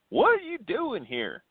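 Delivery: high, drawn-out mock Tennessee accent. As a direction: imitate locals in a slow, high Tennessee accent. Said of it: "trying to do my best Tennessee accent".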